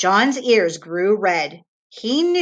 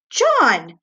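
put-on a sharp, louder cry of the boy's name; exclaiming; 4 semitones higher, 5 dB louder than usual. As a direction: call his name out in dismay. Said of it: "exclaimed Missus Midas".

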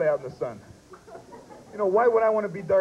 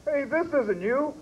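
stern cop; 6 semitones higher, slower than usual. Pretend. Cop checking ID.

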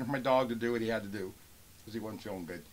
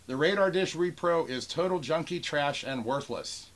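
slow, higher, mildly angry reading; mock temper tantrum; 5 semitones higher than usual. Seller reading a buyer's insult aloud, mock temper tantrum. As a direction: hit each insult deliberately. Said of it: "this is the guy having a temper tantrum".

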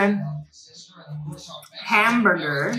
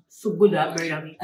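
put-on Cantonese English accent; 3 semitones lower, faster than usual. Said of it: "I think I can do the Cantonese English way better".

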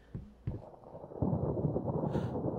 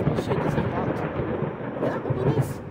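whisper; 5 semitones lower, 3 dB louder than usual. Real, not acted. Scared player sneaking past a locked door, whispering. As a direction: whisper so nothing in the house hears. Sneaking through a creepy house.

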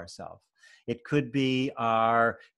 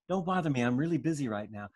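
a touch of an irritated, dismissive father, quick; brusque father; 3 semitones higher, faster than usual. Retold or imitated. Stressed father home from work brushing off his scared child. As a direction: wave the child off impatiently.

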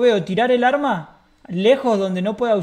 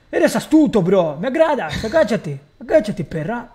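laughing; 5 dB louder than usual. Acted. Robber laughing, ordering.

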